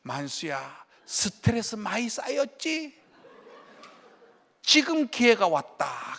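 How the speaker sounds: a hint of God speaking softly. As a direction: speak gently like a divine whisper of permission. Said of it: "하나님께서 그때 이렇게 말씀을 주시는".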